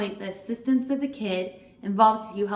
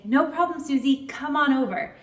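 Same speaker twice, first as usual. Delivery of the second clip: friendly reassurance; 3 semitones higher than usual. Shown as a demonstration. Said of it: "What I can do is I can say".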